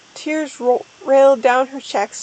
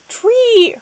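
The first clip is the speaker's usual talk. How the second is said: high, loud drawn-out cry; overdone exclaiming shout; yelled exclamation; 10 semitones higher, 7 dB louder than usual. A narrator's reading. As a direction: belt out the one word. Character cries out the number.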